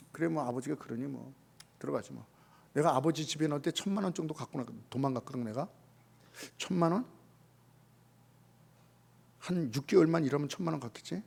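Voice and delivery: soft, muttered grudging reasoning. Retold or imitated. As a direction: mutter to yourself, half-hearted. Prodigal voiced reasoning by works. (마지못해 중얼거리는 말투)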